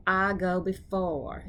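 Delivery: slow Southern drawl; drawn-out Southern accent. Shown as a demonstration. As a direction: stretch it out with a light Southern twang.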